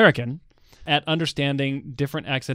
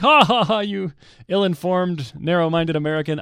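mock haughty laugh, starting high; imitated mocking laughter; 4 semitones higher than usual. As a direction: imitate scornful laughers jeering. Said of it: "they just had a great laugh at it".

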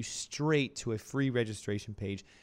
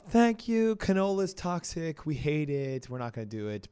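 excited crowd voice; 4 semitones higher than usual. Retold or imitated. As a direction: cheer it like a relieved fan. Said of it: "everybody blew up".

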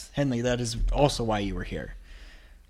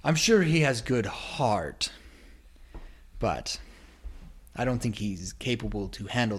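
condescending whisper. Acted. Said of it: "He's like".

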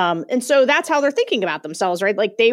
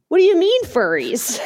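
imitating a baffled group member, pitched up; higher, incredulous question; taken aback; 7 semitones higher than usual. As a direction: act out someone stopped short by what they heard. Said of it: "like, record scratch in the group".

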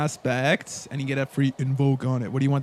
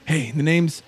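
sheepish little tail guy; much slower than usual. Acted. NPC apologizes, introduces himself.

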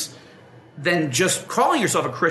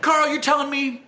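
high, slowed disbelief at the offer; a sceptic questioning Carl about the only cure; incredulous; 7 semitones higher than usual. Retold or imitated. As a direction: act like you can't believe what he's telling you. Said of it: "you know, like".

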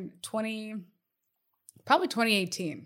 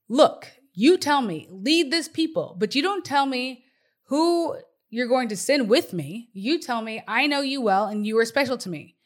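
sassy; 3 semitones higher, 4 dB louder than usual. Acted. Moses confronting God about who will help him, sassy. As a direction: push back with sass, punching key words. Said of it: "he got real sassy with God".

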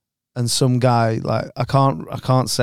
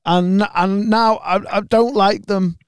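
mock tearful; 6 semitones higher than usual. Fan complaining to comedians, mock tearful and hurt. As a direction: plead it like he's nearly in tears. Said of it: "nearly crying".

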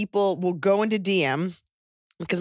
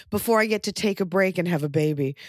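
annoying way. Shown as a demonstration. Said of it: "I'm gonna say it in an annoying way".

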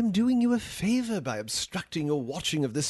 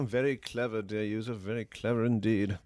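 sarcastic praise; 5 semitones lower, 5 dB quieter than usual. Acted. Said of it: "there's no need to get sarcastic".

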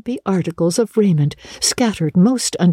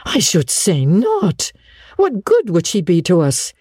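higher, emphatic dismissal; scornful; 4 semitones higher than usual. Acted. Marilla rejecting keeping the girl, scornful. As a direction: stretch it out, firmly dismissive.

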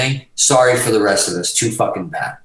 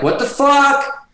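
retold outraged yell, high and drawn out; going off; much slower than usual. Bandleader berating musician onstage, imitated high outraged yell. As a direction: stretch it into a high, indignant cry. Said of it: "going off".

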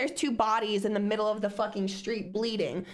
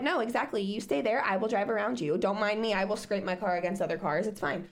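sarcastic; 4 semitones lower than usual. Retold or imitated. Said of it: "you're like".

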